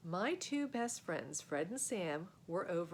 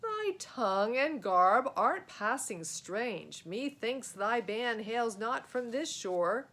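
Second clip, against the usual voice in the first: slow, loud, archaic pronouncement; lordly knight; 2 semitones higher, 7 dB louder, slower than usual. Acted. Black Knight addresses the strange boys, slow and loud.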